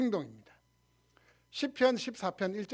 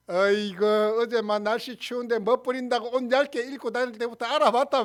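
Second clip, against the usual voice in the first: raised-pitch mock nagging; irritable husband scolding; 3 semitones higher, 4 dB louder than usual. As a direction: scold like a husband quick to anger. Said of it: "화부터 먼저 내는 습성이 있어요". (화부터 내는 남편의 핀잔)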